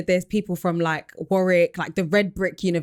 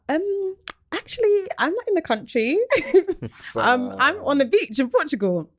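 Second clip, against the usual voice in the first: sheepish laughing; 10 semitones higher than usual. Retold or imitated. Teller admitting to the recruiter she's abroad, sheepish and laughing. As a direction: admit it with an embarrassed giggle.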